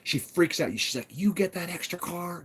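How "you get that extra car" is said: a mild take on the ranch owner barking an order; lightly voiced stern old lady; imitating her bossy order. Telling a visitor to move his car, lightly mimicked bossy. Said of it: "This is how she talks".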